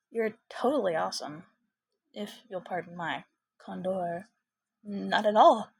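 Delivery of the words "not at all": bashful. Acted. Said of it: "he smiled bashfully".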